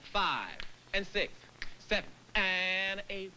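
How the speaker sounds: slow dance count, stretched out; slow rhythmic count. Shown as a demonstration. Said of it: "Now say it like this here".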